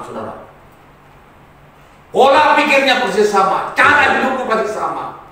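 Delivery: forceful sermon delivery with punched key words; emphatic preaching. Real, not acted. Preacher warning congregation about differing teachings, emphatic preaching. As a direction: press the point home to a congregation.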